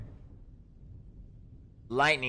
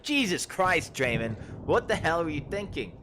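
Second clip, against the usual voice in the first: exasperated shout; 6 semitones higher than usual. Acted. The speaker scolding Draymond, exasperated shout. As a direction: yell at him for being reckless. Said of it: "I'm like".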